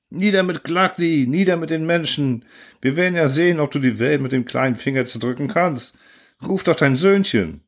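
high, mocking angry chant; jeering mob. The mob jeers at the narrator, high and angry. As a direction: sneer and bay for blood.

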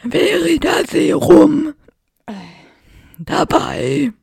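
slow growled Moody line, loud. Acted. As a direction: drag it out in gruff Moody voice. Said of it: "weil ich Moody so komisch geredet habe".

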